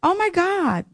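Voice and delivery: high, overwhelmed oh my God; moved gasp. Real, not acted. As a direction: swept up by the poem. Moved by poem reading.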